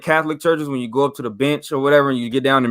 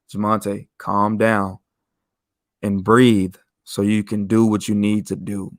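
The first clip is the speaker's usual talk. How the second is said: lower, a gentle inner voice; calm peaceful voice; 5 semitones lower than usual. Retold or imitated. An inner voice calming the dreamer, peaceful and lower. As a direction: soothe him like a calm presence inside. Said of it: "a very calm and peaceful voice".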